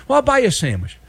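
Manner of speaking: high-pitched acted coaxing; put-on high voice, pleading his case; insistent thief's offer. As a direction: play the guy pushing a sandwich. Acts out lawnmower thief insisting.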